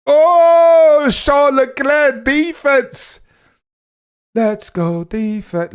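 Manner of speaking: very high, drawn-out race-caller roar; ecstatic shout. Real, not acted. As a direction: yell it long and high in celebration. Shouting at a successful defensive move.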